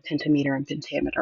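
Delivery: "pentameter" first as PEN-ta-meter, then as pen-TAM-eter; two pronunciations. Shown as a demonstration. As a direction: say "pentameter" two different ways, contrasting them. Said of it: "just different pronunciation".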